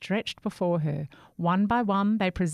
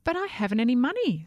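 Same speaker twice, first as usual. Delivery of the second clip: timid whisper; 6 semitones higher, 4 dB louder, faster than usual. Acted. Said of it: "said Jack".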